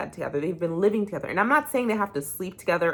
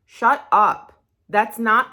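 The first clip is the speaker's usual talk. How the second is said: angry shout; 4 semitones higher, 7 dB louder, much slower than usual. Real, not acted. Real anger at Mecca.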